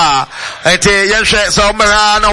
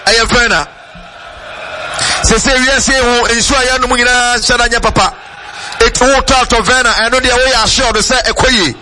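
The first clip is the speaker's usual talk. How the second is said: radio ad read; 2 semitones higher than usual. Real, not acted. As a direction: sell the mineral water. Live sponsor read.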